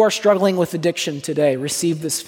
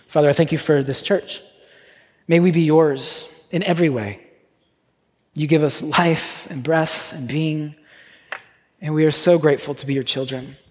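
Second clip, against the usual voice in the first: measured congregational prayer with long pauses. Real, not acted. Pastor thanking God before the feast, prayer. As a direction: pray unhurriedly, leaving space between phrases.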